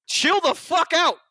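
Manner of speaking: high, slow mock monster yell; Kong yelling. Kong to Godzilla while punching him, high mock yell. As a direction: voice Kong as he pummels.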